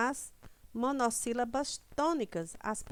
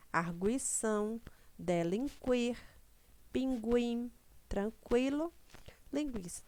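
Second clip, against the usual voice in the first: each word drawn out slowly for the class; slow classroom word list; slow word demo; slower than usual. Shown as a demonstration. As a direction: spell out the words slowly, one by one. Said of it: "slow demo of words without trema".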